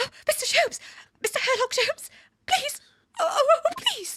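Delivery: rapid-fire speech. Playing a woman pleading with mister herlock jones to find her husband, in a fast voice. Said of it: "has the fast voice".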